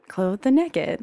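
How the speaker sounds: "naked" said as Southern "nekkid"; short E as in "neck" in "naked"; Southern pronunciation. Retold or imitated. Shy pupil repeating it for the nun, "naked" said as "nekkid". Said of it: "a lot of people say naked".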